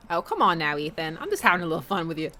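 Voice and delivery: lightly put-on cartoon Southern accent; teasing in a hammy Southern accent; fake Southern accent. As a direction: play a folksy Southern cartoon dad. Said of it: "my atrocious fake X-Men nineties cartoon level accent".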